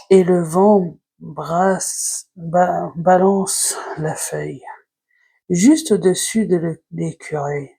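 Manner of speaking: slow, measured recitation; poem reading. Acted. Vlogger reading the squirrel poem to viewers, slow recitation. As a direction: read it line by line, pausing after each phrase.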